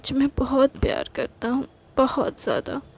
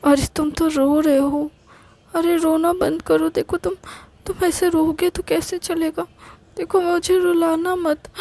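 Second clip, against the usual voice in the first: put-on higher girlish voice, comforting; girlfriend voice; 6 semitones higher than usual. Girlfriend soothing her crying boyfriend, higher pleading voice. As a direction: coax him gently to stop crying.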